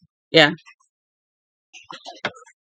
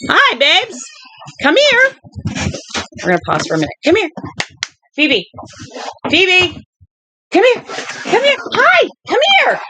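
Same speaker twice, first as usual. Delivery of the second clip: puppy talk; 10 semitones higher than usual. Real, not acted. Owner calling her puppy over, high squeaky baby talk. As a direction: coax the puppy over in a sing-song high voice.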